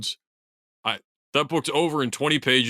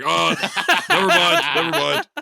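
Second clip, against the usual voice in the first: mock panicked backing down; 5 dB louder than usual. Mocking Welsh crowd backing down.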